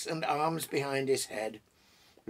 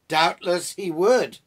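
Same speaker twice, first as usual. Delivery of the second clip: loud, drawn-out amused reply; big, knowing amusement; 4 semitones higher, 10 dB louder, slower than usual. A narrator's reading. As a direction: say it slowly on the edge of a laugh. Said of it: "laughed Gandalf".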